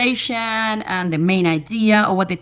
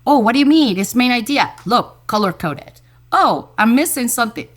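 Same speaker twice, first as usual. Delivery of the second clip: put-on bright, louder kid voices, a bit higher; excited kids; 3 semitones higher, 4 dB louder than usual. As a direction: act out thrilled students discovering the tool. Students excited using Luna.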